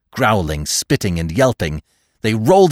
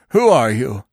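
slightly raised, indignant yelp; 3 semitones higher, 4 dB louder than usual. A narrator's reading. Dog challenging the gathered animals, mild yelp. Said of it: "he yelped".

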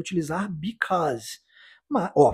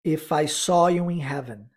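slow drill. Shown as a demonstration. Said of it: "segunda parte dessa pergunta".

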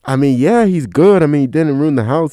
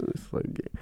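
ordinary talk, nothing marked

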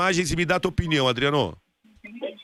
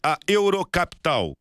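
ad read. Acted. Sponsor ad read.

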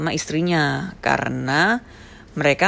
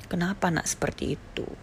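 retold crying; 7 dB quieter than usual. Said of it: "Mamaku nangis".

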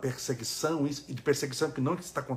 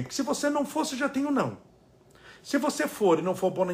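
preaching; 10 semitones higher, faster than usual. Real, not acted. Preaching at full force.

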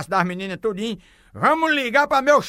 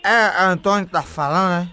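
put-on drunk voice; 4 semitones lower than usual. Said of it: "o bebo rei desmantelado".

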